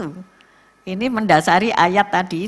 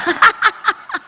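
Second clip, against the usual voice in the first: a burst of high laughter; 12 semitones higher, 5 dB louder than usual. Real, not acted. Laughs after husband quote.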